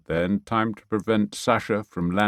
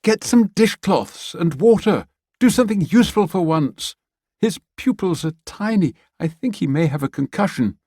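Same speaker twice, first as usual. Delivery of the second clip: higher, louder woman barking orders; bossy woman; 10 semitones higher, 4 dB louder than usual. Acted. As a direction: order him about impatiently. Woman orders Bertie about.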